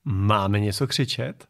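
slow, drawn-out mock question; deliberately dopey echo; mimicking a bystander. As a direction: echo it slowly in mockery. Echoes question from played clip.

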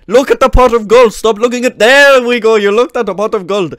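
put-on Irish accent slipping towards Indian; wandering mock accent. Leprechaun urges player to look at gold, wobbly Irish-Indian accent. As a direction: attempt Irish and drift into Indian. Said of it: "Is this Indian accent now?".

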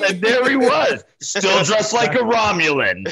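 slow, high spooky storyteller voice; dramatic reveal. Pretend. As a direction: unveil it like a horror twist. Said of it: "I thought you were gonna be like".

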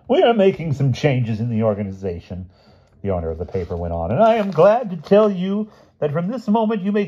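high, grandly announcing boss's voice; pompous boss. A narrator's reading. Owner of the paper promoting the mother, proclaiming. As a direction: play a self-important owner making an announcement.

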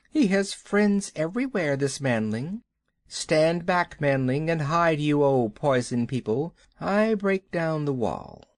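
high commanding snake; lightly voiced python giving orders. Kaa voice.

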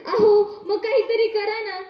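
crying out to her husband; tearful plea. Acted. Mother begs husband to help her sick baby, crying. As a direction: beg through tears.

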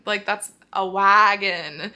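broad Minnesota wagon, slow; Minnesota accent. Shown as a demonstration. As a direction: lean into the Minnesota vowels. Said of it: "That's my Minnesota accent".

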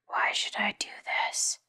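loud, slow stage whisper; a beast's challenge, whispered with weight; demanding beast. A narrator's reading. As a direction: demand it slowly in a forceful whisper. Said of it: "demanded the beast".

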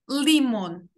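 лімон with a slightly hard L; a firmer L at the start of лімон. Shown as a demonstration. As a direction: say лімон without softening the L much. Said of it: "От трошечки твердіше".

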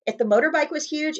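usual speaking voice

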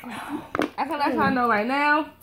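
soft unvoiced whisper. Real, not acted. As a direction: whisper it to the camera. Repeats line in a whisper.

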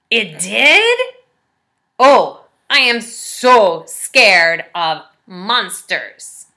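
Grover realizing a monster is coming; worried Grover. Acted. Grover discovers monster warning.

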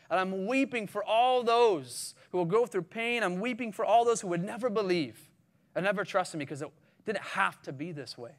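impassioned lament. Acted. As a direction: plead it as the grieving Jesus. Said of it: "And he's weeping for that".

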